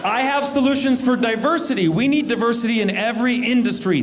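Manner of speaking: booming pitch for diversity. Acted. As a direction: shout it like a campaign promise. Shouted comic proclamation.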